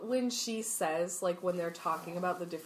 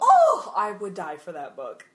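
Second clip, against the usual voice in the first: real squeal of longing; fangirl outburst; 10 dB louder than usual. Real, not acted. Gushing over a wished-for book.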